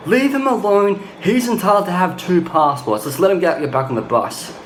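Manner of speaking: lightly voiced driver pleading his case; bus driver sticking up for him. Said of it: "the bus driver of that bus was like".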